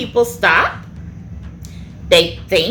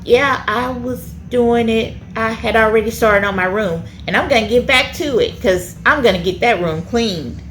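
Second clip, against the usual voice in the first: calm reply. Shown as a demonstration. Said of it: "calmly go to your mom".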